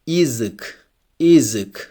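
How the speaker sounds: "язык" opening on ee, like ee-zyk; unstressed Ya as I. Shown as a demonstration. Teacher models an example word for learners, "язык" starting with ee. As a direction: say the first letter of "язык" as ee. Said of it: "it's also pronounced like E".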